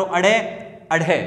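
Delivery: अड़े, अढ़े with a short "a" in front; added leading vowel. Shown as a demonstration. Teacher models the rule, अड़े and अढ़े said separately. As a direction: flap the tongue on अड़े, then breathy-aspirate अढ़े. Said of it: "ए का उच्चारण कर दो".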